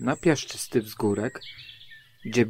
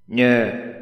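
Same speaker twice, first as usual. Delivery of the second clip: different voice; 4 dB louder than usual. Acted. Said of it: "tym razem już innym głosem".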